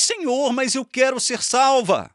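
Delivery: pleading insistence. Pretend. Maria stamps her foot, pleading.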